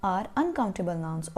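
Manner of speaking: very slow, each word spaced; slow teacher dictation of a rule. Shown as a demonstration. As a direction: dictate it so pupils can write. Teacher reading instructions aloud.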